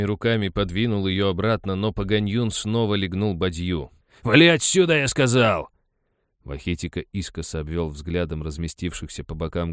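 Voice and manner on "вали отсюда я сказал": much higher, louder order; enraged miner ordering the boy away; furious yell. A narrator's reading. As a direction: bark him out. Kicks bucket, yells.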